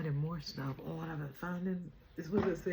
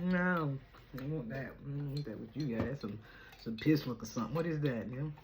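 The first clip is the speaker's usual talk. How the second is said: sassy friend; 3 semitones higher than usual. Retold or imitated. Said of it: "I said".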